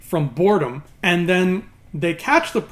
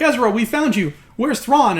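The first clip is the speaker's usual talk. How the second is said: eager call; 5 semitones higher, 3 dB louder than usual. Retold or imitated. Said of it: "they're like".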